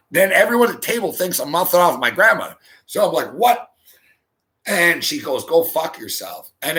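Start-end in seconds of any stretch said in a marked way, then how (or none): 3.3-3.7 high, rising "what?"; incredulous what. Retold or imitated. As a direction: pitch it up sharply, as if challenging her. Repeats his reply to aunt.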